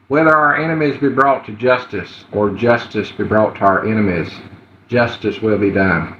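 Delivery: a mild, plain-voiced take on a Bush speech; George W. Bush. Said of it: "I just did, uh, George W. Bush".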